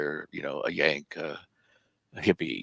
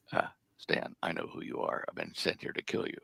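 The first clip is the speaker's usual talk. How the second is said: whispered threat; 2 semitones lower, 6 dB quieter than usual. Retold or imitated. Assassin to Stan by the campfire, quiet whispered threat. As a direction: breathe it close like a secret threat. Stranger speaks into his ear.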